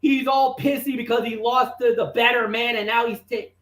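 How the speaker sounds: mild mock yell, indignant; retold yelling. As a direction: punch out the insults like a ranting commentator. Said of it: "that's when I started yelling".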